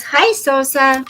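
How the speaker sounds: Bee Lady voice. Acted. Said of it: "Bee Lady says".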